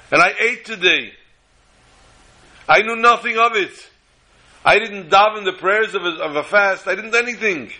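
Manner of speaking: a simple man realising his mistake; distraught. Retold or imitated. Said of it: "The man was shattered".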